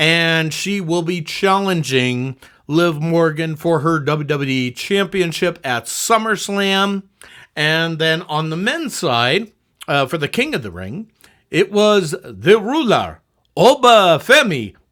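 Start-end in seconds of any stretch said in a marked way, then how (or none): 11.5-14.7 slow, put-on, badly done Nigerian accent. Announcing the King of the Ring winner: bad Nigerian accent. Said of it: "how I'm doing a bad Nigerian accent".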